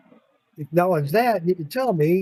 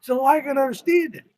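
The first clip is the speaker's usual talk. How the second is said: upset plea; 7 semitones higher than usual. Retold or imitated. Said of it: "I start getting upset too".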